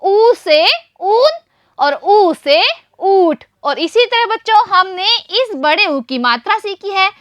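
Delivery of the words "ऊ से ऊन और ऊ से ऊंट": slow teaching demo. Shown as a demonstration. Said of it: "बड़ा ऊ।".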